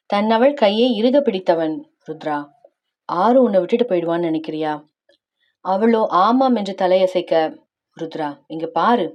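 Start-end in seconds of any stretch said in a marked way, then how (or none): 2.1-4.7 low, softened husband's voice; lightly voiced, low and coaxing; gentle concern. Husband to his tearful wife, gentle concern. 8.0-9.1 low, slightly softened plea; gentle coaxing. Acted. Husband calling his crying wife to look, gently coaxing.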